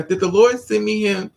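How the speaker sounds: high starry-eyed wonder; high dreamy gushing. Retold or imitated. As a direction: gush like you've fallen hard. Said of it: "Then you look at him twice and now".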